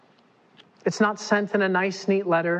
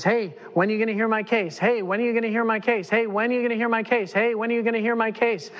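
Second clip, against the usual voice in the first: persistent widow; 3 semitones higher, faster than usual. Acted. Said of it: "she just says".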